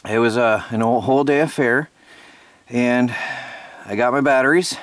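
breathless from rushing around; short of breath, panting lightly. Real, not acted. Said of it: "Sorry, I'm out of breath".

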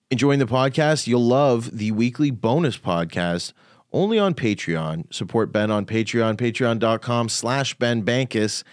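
upbeat podcast plug; ad read. Acted. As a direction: sell the Patreon like an ad. Patreon ad read.

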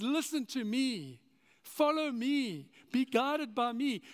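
slow, calm invitation; Jesus gently calling his followers, slow; gentle Jesus. Retold or imitated. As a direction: lay each phrase down slowly and kindly. Jesus speaking to listeners.

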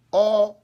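loud mock groan of the possessed; an abrupt, loud imitated growl; loud grunt. Preacher acting out a possessed man, loud growl.

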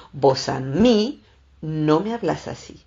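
slow, firm, imitating a scolding friend; mild stern rebuke. Friend imitated telling someone off over their tone, stern. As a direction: drag out vos a mí like a warning. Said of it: "Con ese tono a mí".

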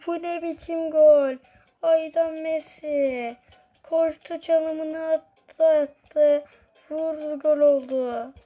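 chanting names, rising to a goal shout; sports commentator. Pretend. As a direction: hype the goal like a live match caller. Play-by-play of own game.

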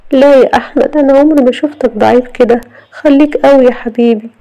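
high-pitched, coaxing female voice; consoling young woman. Acted. Rana consoles Ahmed.

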